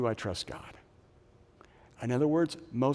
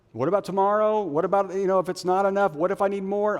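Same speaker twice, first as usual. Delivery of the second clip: worried voice; 7 semitones higher, 5 dB louder, faster than usual. Acted. Anxious worried questions.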